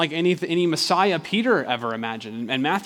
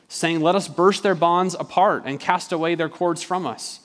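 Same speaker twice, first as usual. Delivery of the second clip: slightly raised, ringing scripture reading; forceful psalm reading. A narrator's reading. Preacher reads Psalm two to show Peter's expectations, forceful proclamation.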